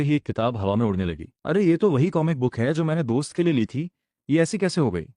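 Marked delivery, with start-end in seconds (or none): 1.5-5.1 higher, startled "अरे" at the flying comic; a boy amazed to see his comic flying; surprised. Acted. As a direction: catch your breath at the flying book. Book suddenly flies in air.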